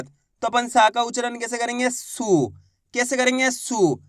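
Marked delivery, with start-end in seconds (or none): 1.9-2.5 सु with a long drawn-out ऊ; teacher की तरह खींचकर सु बोलना; long oo sound. Shown as a demonstration. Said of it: "खींच के पढ़ना है।". 3.5-4.0 सु with a long drawn-out ऊ; टीचर की तरह खींचकर सु बोलना; long oo sound. Shown as a demonstration. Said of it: "खींच के पढ़ना है।".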